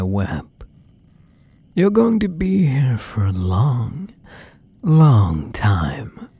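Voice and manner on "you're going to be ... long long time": unvoiced threatening whisper; menacing whisper. Tells captive he stays trapped.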